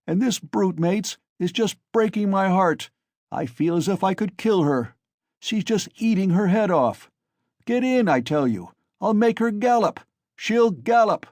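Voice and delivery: loud, high brutish brag; a drunk bully showing off; drunken boasting. A narrator's reading. Drunk driver boasting about mare.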